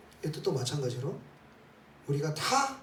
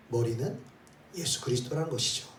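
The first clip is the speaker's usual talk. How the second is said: usual speaking voice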